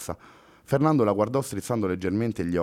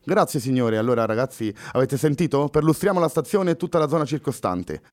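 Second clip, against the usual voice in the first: higher and louder, officer giving orders; calling out; 6 semitones higher, 3 dB louder than usual. Acted. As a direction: call out to the squad and leave. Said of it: "esclamò ad alta voce il poliziotto".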